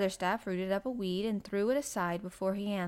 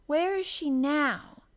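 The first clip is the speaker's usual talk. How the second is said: higher, louder, slow eager question; eager girl's raised voice; much interested; 7 semitones higher, 6 dB louder, slower than usual. A narrator's reading. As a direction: ask with keen curiosity, drawing it out. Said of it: "much interested".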